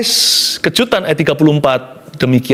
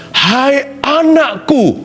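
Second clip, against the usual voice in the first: tender; 4 semitones higher, much slower than usual. Acted. Preacher voices Jesus calling her daughter.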